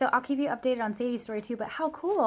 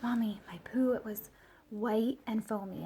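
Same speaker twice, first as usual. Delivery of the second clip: put-on small, hushed kid voice, mildly worried; a touch of fright, fading toward a whisper; imitating scared child. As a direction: lightly act a child confiding in mom. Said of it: "she comes out and she's scared".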